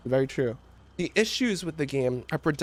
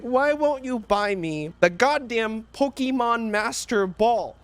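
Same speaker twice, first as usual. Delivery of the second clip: slow, higher-pitched bratty whine; mock crying child; 5 semitones higher, slower than usual. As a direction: imitate a kid crying for a toy. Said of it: "Jimmy starts crying again. He's like".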